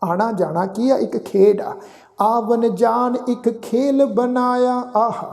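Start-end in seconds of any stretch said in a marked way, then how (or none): 2.2-4.7 slow, drawn-out sacred recitation; measured Gurbani reading, sustained line endings; scripture recitation. Shown as a demonstration. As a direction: chant each phrase slowly with long held vowels.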